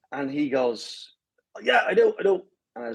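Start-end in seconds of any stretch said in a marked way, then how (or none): 1.6-2.4 high, eager imitation of a yes; eager retold answer. Runner answering the pacer's set-up question, mock eager. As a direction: play the unsuspecting victim, pitched up. Retold victim falls for the joke.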